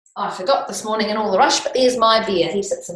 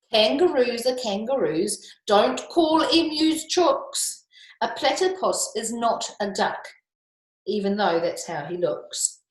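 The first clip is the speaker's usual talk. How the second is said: ranting koala; 4 semitones higher, slower than usual. Acted. Teacher reading the picture book to the class, as an indignant koala. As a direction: rattle off the koala's grievance, exasperated.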